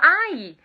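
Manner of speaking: "Ai" said like a yelp when pinched; "Ai" as in ouch from a pinch; short pinched "Ai" for he. Shown as a demonstration. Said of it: "Você fala".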